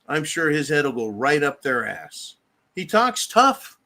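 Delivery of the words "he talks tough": slow and loud, punching the word tough; emphatic declaration. Real, not acted. Ranting host loudly slowing down on he talks tough. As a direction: hammer it home, slowly and loudly.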